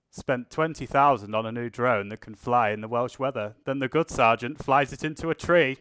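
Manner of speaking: a mock-grand British reading of a colleague's tweet; overly British accent. Shown as a demonstration. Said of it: "I actually put on an overly British accent".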